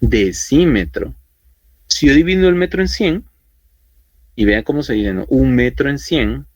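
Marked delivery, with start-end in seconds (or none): 0.0-1.1 slow "Decímetro" stressed on "cí"; careful pronunciation. Shown as a demonstration. Teacher repeating the unit name, slow and careful. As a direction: model "Decímetro" slowly for the class. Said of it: "decimos ya por cuestiones de fonética".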